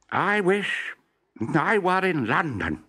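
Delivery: high, loud, slow proclamation; grand wish. Acted. Professor making his big wish before the journey, eager. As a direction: announce the wish like a spell. Wishing aloud for flight.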